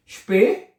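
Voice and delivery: स्पे said as "shpay", vowel held, rising; स्पे with a "sh" start and lifted end; syllable sounded out. Shown as a demonstration. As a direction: teach स्पे as a first syllable. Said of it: "ये क्या बनेगा".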